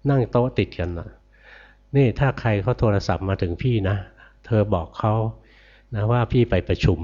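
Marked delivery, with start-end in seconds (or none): 1.5-7.0 boss giving orders. Retold or imitated. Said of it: "หัวหน้ากองสั่ง".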